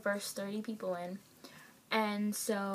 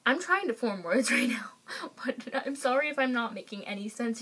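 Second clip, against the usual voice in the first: flustered whisper; 3 semitones higher, 4 dB louder than usual. Retold or imitated. Meeting the singer, too flustered to talk.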